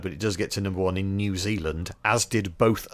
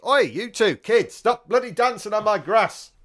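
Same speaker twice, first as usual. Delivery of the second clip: high, loud yell out the window; mock angry shout; 12 semitones higher, 4 dB louder than usual. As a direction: bawl at them like a fed-up homeowner. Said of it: "Not in that voice".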